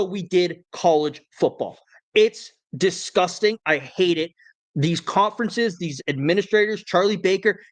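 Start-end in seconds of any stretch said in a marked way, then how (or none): 2.1-7.6 worked-up rant. Real, not acted. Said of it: "I'm so worked up about this".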